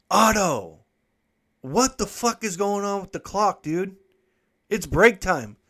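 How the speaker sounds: high, loud yell to the foreman; yelling across the factory. Retold or imitated. Worker yells across the factory to the foreman about the clock, loud and high. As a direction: shout at the far-off foreman, fed up. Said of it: "And I yelled to the factory foreman".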